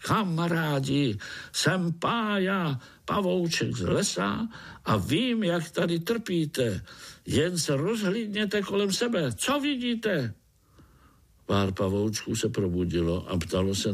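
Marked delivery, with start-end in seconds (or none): 0.1-10.3 high, eager little voice rallying the others; high-pitched spider cheerfully calling his friends. Acted. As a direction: call out to the spiders as a small hero. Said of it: "volal tím nejsilnějším hlasem".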